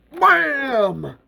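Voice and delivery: high, drawn-out wham; imitated slam. A narrator's reading. Narrator imitating a creature hitting the door, emphatic. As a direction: make the impact ring.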